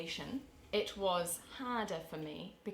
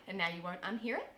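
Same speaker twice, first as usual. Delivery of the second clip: statement rising on "it" like a question; questioning upspeak. Shown as a demonstration. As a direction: lift "unhear it" as if asking, amused. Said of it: "at the end it's like a question".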